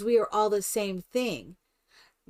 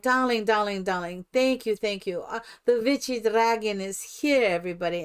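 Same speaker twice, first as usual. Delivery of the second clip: light mock European diva accent; mixed foreign accent. Entering in costume to greet residents, mixed foreign accent. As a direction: lightly imitate a broken-English diva accent. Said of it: "my accent is a cross between".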